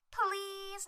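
high, imitated begging; wheedling plea. Girl begs to drive the speedboat, mock wheedling. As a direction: draw out a mock girlish plea.

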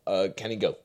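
choking mid-word; words cut off by a choke; choking on a drink. Real, not acted. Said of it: "choking myself to death".

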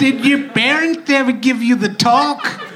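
slow, high mock Canadian accent; hammed-up, dragging Canadian impression; changed accent, meant as Canadian. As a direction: draw it out in a silly Canadian voice. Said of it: "I've changed the accent".

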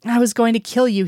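each word of "I was going to kill you" lightly emphasized; deliberate, stressing "I was going to kill you" word by word; slow, emphatic words. A narrator's reading. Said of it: "said slowly, emphasizing each word".

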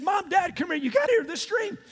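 eager announcement. Retold or imitated. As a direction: call the parents over eagerly. Young Joseph eagerly announcing his dream.

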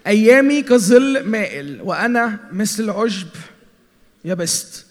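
slow, weighty reading of the psalm; slow scripture reading. Real, not acted. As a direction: lean into each phrase of the verse. (قراءة بطيئة ومهيبة للمزمور)

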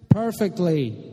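high, drawn-out call upstairs; slow, high-pitched answer called across the house; calling back. A narrator's reading. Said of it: "Jean called back".

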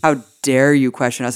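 mildly affronted mock arrogance; arrogant. Podcaster repeats politician's rebuff to questioner, mock arrogant. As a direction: imitate a haughty politician's rebuke. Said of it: "He was so goddamn arrogant".

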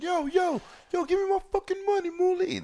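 high-pitched mock Italian-American mobster demand; mock Italian gangster. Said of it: "all that Italian shit that they be saying".

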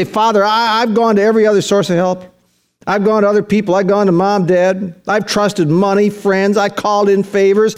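preacher demonstrating an urgent, helpless prayer; desperate confession. Acted. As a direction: plead with the Father in insistent, rhythmic phrases. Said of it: "Know what it means to be desperate?".

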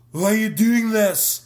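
put-on a light Scottish-accented Why are you doing this; Jerry Butler impression. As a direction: roll it out with a slight Scottish lilt. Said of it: "That's my great Jerry Butler impression".

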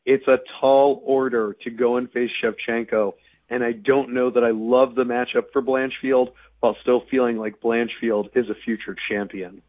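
hoarse, strained voice with almost no voice left. Real, not acted. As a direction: talk through a lost voice. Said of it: "I have no voice".

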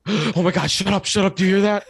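high, frightened hush of friends hearing a bear; mock-scared friends shushing each other, pitch climbing; panicked whisper-shout. Friends hear bear noises in the dark, mock panicked hush. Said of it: "while everyone else goes".

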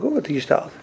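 ordinary delivery

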